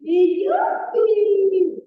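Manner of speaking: drawn-out, loud gleeful whoop; slow yippee. Acted. Storyteller to refugee kids, a slow drawn-out whoop. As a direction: stretch the cheer out slowly. Storyteller repeats slide cheer.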